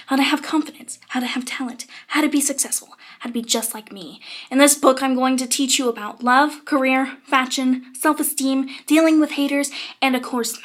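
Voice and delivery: lightly voiced Miranda Sings, a few whispered bits; a hint of Miranda's over-confident chirp; Miranda impression. Vlogger reading the flap as Miranda, lightly done impression. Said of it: "my terrible Miranda impression".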